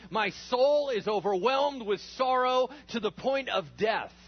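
loud, high, slow cry of anguish; Jesus in Gethsemane crying out his sorrow to the disciples; distressed Jesus. Acted. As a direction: pour out overwhelming sorrow. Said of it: "deeply distressed and troubled".

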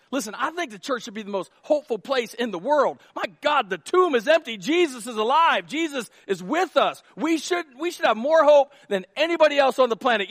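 high, loud, fervent preaching; rally the congregation; full-force preaching on hope. Acted. Preaching climax.

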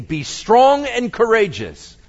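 encouraging. A narrator's reading. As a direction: lift their courage. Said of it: "spoke encouragingly to them".

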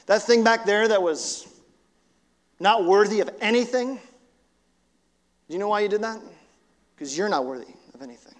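voice of shame. Acted. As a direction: sneer it as shame would. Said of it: "Shame goes".

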